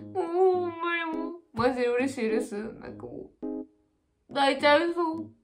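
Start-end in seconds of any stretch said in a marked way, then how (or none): 2.6-5.3 near tears. Real, not acted.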